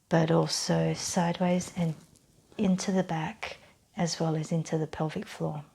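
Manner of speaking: calm guided-relaxation voice with long pauses; measured meditation-style instruction; guided breathing exercise. Real, not acted. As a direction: lead them gently through the breath, unhurried.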